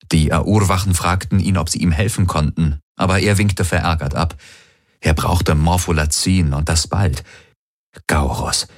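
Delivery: ordinary delivery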